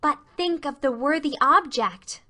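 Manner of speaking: pleading. Acted. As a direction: coax her like an eager girl. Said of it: "pleaded Anne".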